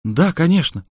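a quick, keen woman's answer; exclaiming. Acted. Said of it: "воскликнула Василькова".

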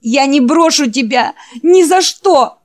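clings to him with every word; tearful promise. Acted. Jack promising the dying Wolf not to leave, high loud cry.

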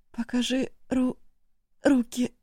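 high, choked, strained; barely getting it out through a choking throat; forced out with effort. A narrator's reading. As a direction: squeeze the words out past a tight throat. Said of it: "выжила она из себя".

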